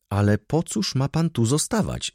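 put-on high-pitched young lady's protest; exclaimed protest. A narrator's reading. Young lady objecting to him staying behind, exclaiming. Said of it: "zawołała panna Izabela".

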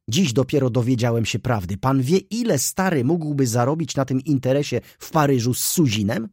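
high, loud, breathless gossip; excited young clerk. Acted. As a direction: rattle it off, scandalised and thrilled. Mraczewski's excited gossiping speech. (podniecony, głośny młody subiekt)

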